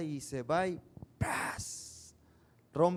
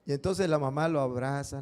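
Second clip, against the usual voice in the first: ordinary talk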